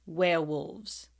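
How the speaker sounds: slow, drawn-out, low announcement; slow Snape. A narrator's reading. Snape announcing the topic, slow and low. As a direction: let the word hang slowly. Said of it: "said Snape".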